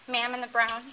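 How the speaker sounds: ordinary delivery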